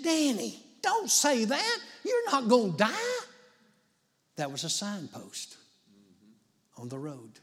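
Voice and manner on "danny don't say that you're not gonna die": higher, louder pleading wife voice. Retold or imitated. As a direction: imitate the wife begging her husband not to talk of dying. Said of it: "she said".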